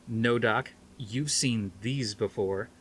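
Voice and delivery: slow, knowing and smug; a touch of slow smugness. Acted. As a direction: savor the reveal. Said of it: "Norton grinned smugly".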